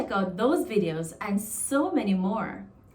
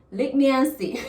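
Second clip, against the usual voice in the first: threatening tone; 4 semitones higher, 4 dB louder than usual. Shown as a demonstration. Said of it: "it's like a threat".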